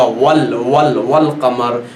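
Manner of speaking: वल कमर said slowly, ल clearly sounded; वल repeated slowly, then वल कमर; slow recitation. Shown as a demonstration. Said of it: "ये लाम पढ़ा जाएगा".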